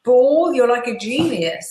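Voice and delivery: high, over-the-top delighted praise; a parent cheering the toddler's first potty use, mock gushing. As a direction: gush like a proud parent at a potty win. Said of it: "you go".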